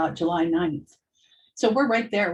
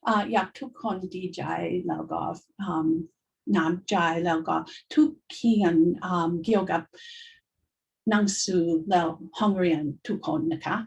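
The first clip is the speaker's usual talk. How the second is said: speaking Thai; much faster than usual. Shown as a demonstration. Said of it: "It was Thai".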